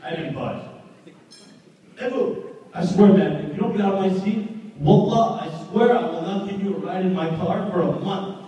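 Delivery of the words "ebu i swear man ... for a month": much higher, loud, angry mock shouting; furious outburst. Friend yelling at Ebu to leave the front seat, furious shout. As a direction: act out a friend losing it over the seat. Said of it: "He just completely flipped out".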